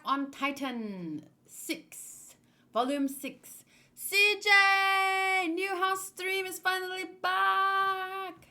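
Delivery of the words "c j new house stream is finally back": high, loud excited shout-out; excited greeting. Real, not acted. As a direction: greet the subscriber with a burst of joy.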